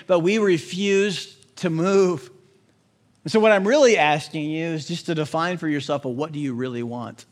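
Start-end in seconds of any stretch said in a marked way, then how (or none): 6.0-7.2 soft question. Acted. Preacher asks the question softly.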